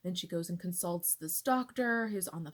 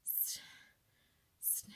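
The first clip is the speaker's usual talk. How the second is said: stuck stutter; 15 dB quieter than usual. Retold or imitated. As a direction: caught on the S, the word won't come out. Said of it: "I'm just stuttering".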